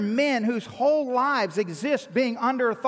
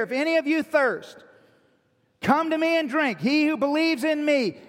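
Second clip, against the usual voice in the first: raised, emphatic preacher's proclamation, slowing at the end; crying out; 3 semitones higher than usual. Retold or imitated. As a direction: imitate calling out to a crowd, without yelling. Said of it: "He cried out so everybody could hear".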